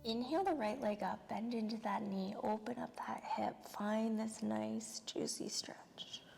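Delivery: soft, unhurried yoga-teacher voice with long pauses; guided yoga relaxation. Real, not acted. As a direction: ease them through each breath, softly. Leads calming yoga practice.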